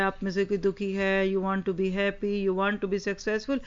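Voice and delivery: put-on boy calling out. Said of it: "لوگوں کو آواز لگا رہا ہے".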